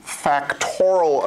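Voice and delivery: "Factorial" said as fac-TOR-ul, three syllables; "Factorial" as fak-TOR-ul; pronunciation of factorial. Shown as a demonstration. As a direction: say "Factorial" with the i nearly dropped, stress on TOR. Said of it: "but it's pronounced factorial".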